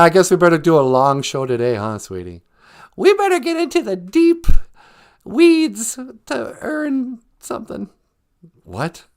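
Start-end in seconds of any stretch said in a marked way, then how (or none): 3.0-7.9 very high, squeaky little character voice; high-voiced sidekick. Sidekick chatting with the host about the show, high character voice. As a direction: play the host's high-pitched little sidekick.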